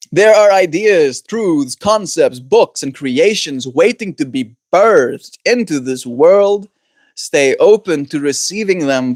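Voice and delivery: slow, measured oracle-card read. Acted. Streamer reads the oracle card to chat in a slow, measured voice. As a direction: intone the card's message slowly.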